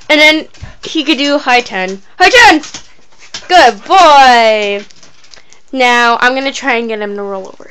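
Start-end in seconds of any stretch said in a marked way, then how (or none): 2.2-4.8 squeaky praising a dog. Real, not acted.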